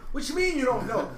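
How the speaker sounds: high, loud incredulous challenge; mock disbelief. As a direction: throw it back in loud disbelief. Acted disbelief at Pat's answer.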